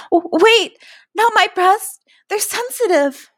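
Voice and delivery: high, stammering plea; startled, high-pitched objection; alarmed protest. A narrator's reading. Character protesting in alarm, flinching.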